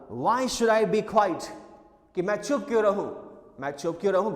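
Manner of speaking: half-shouted retold outrage; mock indignant shout. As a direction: imitate a son loudly objecting, indignant. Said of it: "loudly और चिल्ला के बोला".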